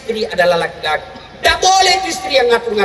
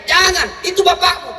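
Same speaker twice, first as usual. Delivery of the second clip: mock upset Ibrahim; 7 semitones higher than usual. Ibrahim complaining.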